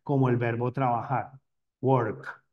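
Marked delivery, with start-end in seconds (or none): 1.8-2.4 "work" ending on a hard, dry K; "work", closed off sharply at the K. Shown as a demonstration. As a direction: cut "work" off on a strong final K. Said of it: "Esa K es fuerte, es seca".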